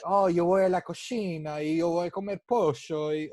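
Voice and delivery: exaggerated mock Spanish accent; fake foreign language. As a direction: babble in a hammy Spanish accent. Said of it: "And it's like".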